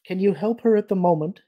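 mild, measured counter-question; politely challenging. A narrator's reading. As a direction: counter him gently, pitch lifted. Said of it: "Elagos countered mildly".

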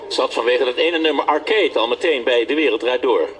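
licht aangezette voice-over van een portret. A narrator's reading. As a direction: lees het voor als commentaar bij een filmpje. (voice-over voor een muzikaal portret)

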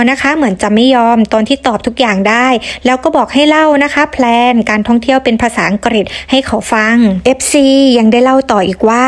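normal talking voice

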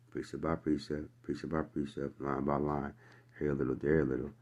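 lilting mock nursery-rhyme chant; softly chanted like a lullaby; singsong nursery rhyme. Shown as a demonstration. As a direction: recite it like a child's rhyme. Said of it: "But that's a nursery rhyme".

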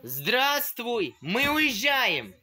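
slow, loud announcement of leaving; drawn-out excited shout; excited calling out. Real, not acted. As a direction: call out happily that we're leaving. Child calls out a goodbye.

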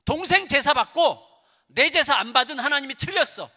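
loud, high outburst of accusation; angry Cain. Acted. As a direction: fire it out like a furious Cain. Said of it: "분노했죠".

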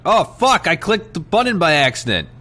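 sudden high shout of alarm; startled outburst. Real, not acted. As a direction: yelp it out in shock. Clicks button by accident.

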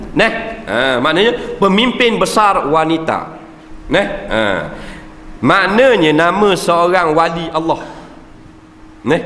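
normal talking voice

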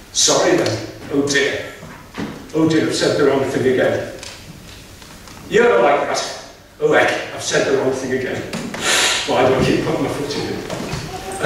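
a lightly voiced, abashed old priest; sheepish old priest. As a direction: mutter it like a flustered old man. Eli apologising after blunder.

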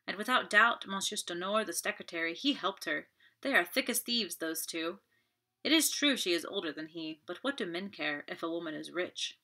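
lightly bitter and scornful; a hint of bitterness. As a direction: let resentment seep in. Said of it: "a hint of bitterness in her tone".

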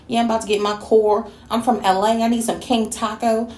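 fast, lightly mocking LA street accent; Saint from Snowfall. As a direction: rattle it off in a half-hearted LA street accent. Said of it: "talking like Saint from Snowfall".

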